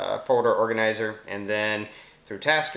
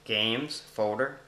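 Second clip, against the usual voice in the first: slow voice command; 3 semitones higher, much slower than usual. Real, not acted. Speaking a command to phone.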